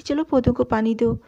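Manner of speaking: enjoy ordering the staff around; bossy orders. Retold or imitated. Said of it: "नौकरों पे भी रोब जमाने का". (मज़े से नौकरों को हुक्म देती हुई)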